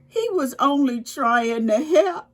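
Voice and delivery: high, tearful weeping; a sad cat near tears. A narrator's reading. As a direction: let the voice crack on the repeated help. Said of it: "wept the cat".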